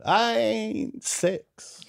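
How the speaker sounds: very slow, high, drawn-out uncle impression; hammed-up Southern-Creole drawl, indignant at mom; Uncle Tom. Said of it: "And Tom said".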